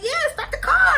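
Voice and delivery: high, breezy voice of the casual officer; imitating officer. Tow lot officer telling her to start the car, breezy. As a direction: play the careless officer lightly.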